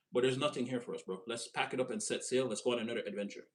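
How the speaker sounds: softly retold in an English accent. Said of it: "I'm saying it in the English accent".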